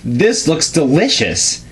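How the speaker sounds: a touch of excitement over the cake; mild exclaim. Acted. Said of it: "he exclaimed".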